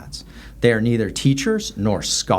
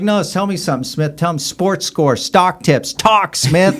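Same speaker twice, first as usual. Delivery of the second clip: drill instructor bark; 5 semitones higher, 3 dB louder than usual. Retold or imitated. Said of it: "I was like".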